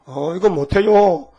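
slow, drawn-out reluctant refusal; acted balking servant; protesting. Voices reluctant servant answering God.

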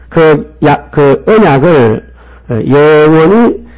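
slow, drawn-out recitation of the verse; solemn scripture reading. Acted. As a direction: stretch each word like a reading from the pulpit. (천천히 엄숙하게 성경 낭독)

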